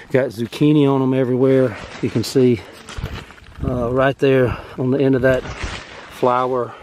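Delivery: slightly winded from yard work; talking while still catching breath. Real, not acted. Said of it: "sorry, I'm kind of out of breath".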